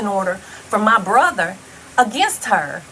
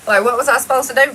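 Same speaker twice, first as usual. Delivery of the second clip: exasperated; 3 semitones higher, 6 dB louder, faster than usual. Real, not acted. Defending herself, exasperated.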